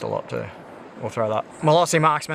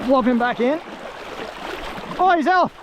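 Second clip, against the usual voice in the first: excited; 12 semitones higher than usual. Real, not acted. Releasing the fish.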